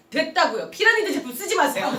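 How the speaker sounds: angry refusal. Retold or imitated. To the prospect pleading for one item, a curt angry refusal. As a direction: cut her off and storm out.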